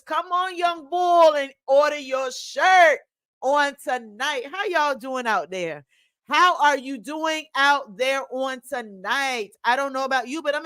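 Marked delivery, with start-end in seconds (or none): 0.0-4.5 put-on a light Philadelphia accent urging the listener on; hint of Philly street talk, come on young bull. Host switches to her Philadelphia voice to sell shirts, lightly Philadelphia-accented. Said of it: "In my Philadelphia voice".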